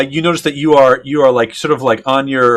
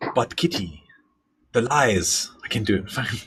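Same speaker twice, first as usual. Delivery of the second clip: put-on hushed, slow murmur in a slightly off German accent; 3 semitones lower, 10 dB quieter than usual. A storyteller voices Fritz answering a woman who called to him, Fritz Drexler in German accent. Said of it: "My German accent is so off right now".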